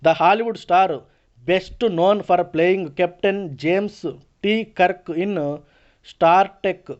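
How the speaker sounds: very slow, deliberate passage reading; slow read-aloud. Acted. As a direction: read it out word by word for the class. Reads English passage aloud slowly.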